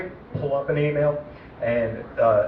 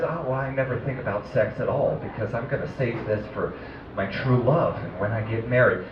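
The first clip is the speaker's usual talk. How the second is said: prim virgin; 5 semitones lower, 3 dB quieter than usual. Retold or imitated. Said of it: "the type of virgin that says".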